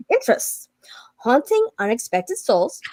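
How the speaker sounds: spooky whisper. Acted. Host whispering the doll's creepy interests. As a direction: breathe it out like a secret.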